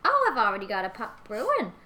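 put-on a sweet chatty old woman; old lady voice. Plays Georgina.

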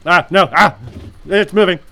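high screaming panic; panicked screaming. Acted. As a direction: scream in terror.

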